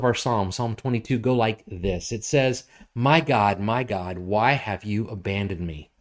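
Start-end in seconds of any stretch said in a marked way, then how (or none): 3.0-5.9 scripture reading. Acted. Pastor reading the psalm aloud to the congregation. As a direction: read out as a full-voiced psalm.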